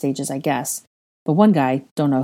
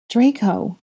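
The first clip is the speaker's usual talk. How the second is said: anxious; 6 semitones higher than usual. Acted. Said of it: "Hermione started anxiously".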